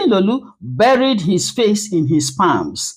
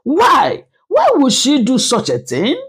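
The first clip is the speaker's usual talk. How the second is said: mild mock scream; 6 semitones higher than usual. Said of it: "Another woman screamed".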